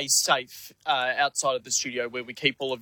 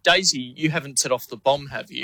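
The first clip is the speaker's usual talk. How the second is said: deadpan. Retold or imitated. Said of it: "turned to her deadpan and said".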